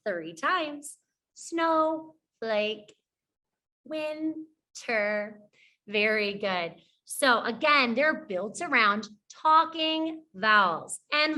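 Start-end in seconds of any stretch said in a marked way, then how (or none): 1.3-5.4 "Snowflake" and "winter" each split into two slow beats; syllable by syllable. Shown as a demonstration. Teacher shows the chin-drop method, syllable by syllable. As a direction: pause inside "Snowflake" and inside "winter". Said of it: "that's a syllable".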